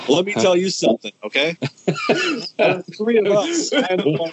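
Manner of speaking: hammed-up heel boast; wrestling promo. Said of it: "cutting a promo".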